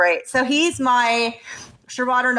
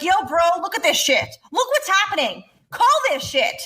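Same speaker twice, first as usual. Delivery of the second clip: mock message to the league; 5 semitones higher than usual. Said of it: "be like".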